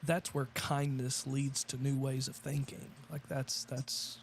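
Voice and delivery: faint, mic in the next room; distant off-mic voice; from another room. Real, not acted. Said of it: "you're so quiet".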